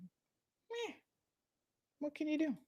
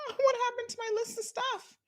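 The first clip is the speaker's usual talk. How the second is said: high, squeaky pretend complaint; mock whiny plea; 4 dB quieter than usual. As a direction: squeak it out like a wounded little voice. Her own whiny reply to hubby.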